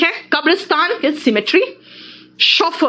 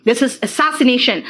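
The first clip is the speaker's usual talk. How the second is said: slow model word; much slower than usual. Shown as a demonstration. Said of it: "slow model word".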